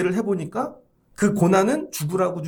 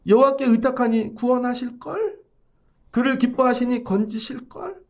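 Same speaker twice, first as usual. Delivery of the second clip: mocking; 3 semitones higher than usual. Mockers quoting faith back at David, mocking. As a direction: taunt with a rising tail. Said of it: "다 비웃고 있는 거죠".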